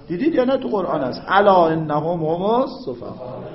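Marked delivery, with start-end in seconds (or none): 1.3-3.4 slow, louder chanted verse; Quran recitation. Acted. Teacher quotes a Quran verse to class, slow recitation. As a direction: intone the verse slowly.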